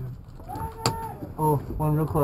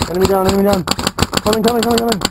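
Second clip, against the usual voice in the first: callout shout; 10 semitones lower, 5 dB louder, faster than usual. Real, not acted. Calling out in airsoft game.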